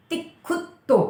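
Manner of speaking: तिखुत्तो said slowly with a doubled त and a half क; careful pronunciation. Shown as a demonstration. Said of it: "ती के बाद half क, फिर खू और फिर डबल त है". (तिखुत्तो में डबल त पर ज़ोर देकर बोलें)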